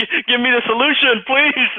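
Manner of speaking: very high, loud mock begging; frantic pleading. Patient begging doctor for a solution, frantic. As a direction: plead in hammed-up panic.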